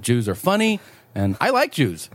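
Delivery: put-on high, heavy Japanese accent. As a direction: quote him in a thick Japanese accent. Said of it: "he also said".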